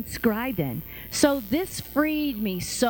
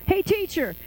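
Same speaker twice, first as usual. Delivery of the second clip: higher-pitched mock call to a teacher; mock crowd yell; 5 semitones higher than usual. Man in the crowd calls to Jesus, mild yell. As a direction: call out like a heckler, only lightly raised. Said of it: "somebody in the crowd yells".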